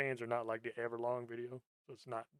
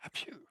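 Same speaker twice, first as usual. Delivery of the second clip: mock anime sneeze; 4 dB quieter than usual. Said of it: "her sneeze, so she's like".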